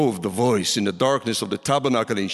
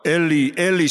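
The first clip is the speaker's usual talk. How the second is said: higher, raised imitated cry; 4 semitones higher, 4 dB louder than usual. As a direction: cry it out twice, pressing on. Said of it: "He cried out".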